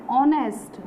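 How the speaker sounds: ऑनेस्ट with a silent h, vowel first; pronunciation demo. Shown as a demonstration. Teacher shows students how honest is pronounced, careful demo. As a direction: say ऑनेस्ट starting on an open vowel. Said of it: "इसका pronunciation क्या हो रहा है".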